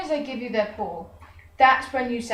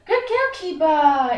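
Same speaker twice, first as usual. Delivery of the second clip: higher, louder, slower praise for the dog; high-pitched praise; 4 semitones higher, 5 dB louder than usual. Shown as a demonstration. Trainer praising her dog, high-pitched. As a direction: sing it up high to reward her. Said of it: "in that really high-pitched voice".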